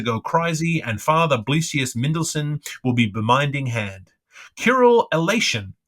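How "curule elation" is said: Curule elation flung out high and loud, falling on elation; high exclamation. Acted. Issy crying out to her mirror-self, high and loud. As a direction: cry Curule elation up high, then let it fall. Ecstatic exclamation in Issy's reverie.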